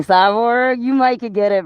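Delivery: calling out. Real, not acted. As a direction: call out to him flirtatiously. Calling out to listener.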